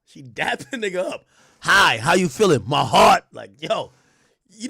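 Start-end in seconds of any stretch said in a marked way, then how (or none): 1.6-3.2 loud imitation of the clip; mock quoting. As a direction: repeat her line loudly, punching each phrase. Echoes the clip's insult mockingly.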